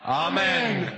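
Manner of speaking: big, high, loud Amen. Real, not acted. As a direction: call it out with the crowd. Everyone says Amen together on three.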